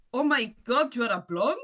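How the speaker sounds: loud, high gasp of disbelief; amazed outburst at a discovery; astonished. Acted. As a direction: blurt it out, rising into a question. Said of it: "looks at her hand and goes".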